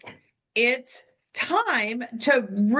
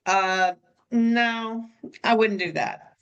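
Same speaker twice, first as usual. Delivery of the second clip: blunt refusal; 3 semitones lower than usual. Retold or imitated. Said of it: "I would say".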